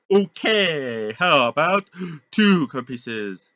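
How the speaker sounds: high, loud squawky parrot. Acted. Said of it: "talking in a pirate voice".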